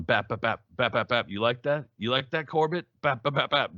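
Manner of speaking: high punchy bap sounds with sing-song jeers; taunting boxer. Retold or imitated. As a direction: jab and tease the man in the corner. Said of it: "Jack Johnson's going".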